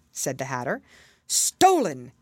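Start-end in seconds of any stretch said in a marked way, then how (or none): 1.3-2.1 louder exclamation; exclaimed. A narrator's reading. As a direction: burst out at the accusation. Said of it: "the king exclaimed".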